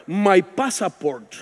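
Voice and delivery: put-on slow, halting Spanish-accented English with a laugh; Spanish-accented English, spoken very slowly and chuckling; broken English. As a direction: sound out the English words very slowly, half laughing. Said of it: "Y yo con mi inglés con barrera".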